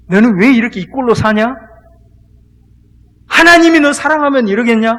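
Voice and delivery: tempting devil. Acted. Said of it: "어떻게 유혹하느냐". (낮게 시작해 점점 크게 몰아붙이는 마귀의 유혹)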